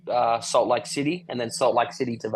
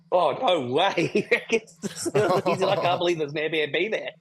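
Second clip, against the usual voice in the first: surprised driver; 6 semitones higher, slower than usual. Retold or imitated. Uber driver disbelieving the address.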